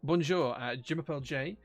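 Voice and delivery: halting schoolboy French, slow in places; amateur French accent. Real, not acted. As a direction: attempt French from distant school memory. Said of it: "my French pronunciation and accent".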